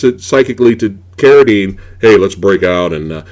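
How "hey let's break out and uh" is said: mock caveman talk. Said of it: "they have the stupid dialogue".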